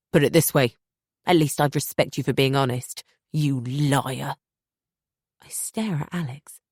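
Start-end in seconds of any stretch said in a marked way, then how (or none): 0.1-4.4 louder scornful jab; cold contempt. Acted. Husband scorning his wife, louder contempt. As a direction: spit out the insult.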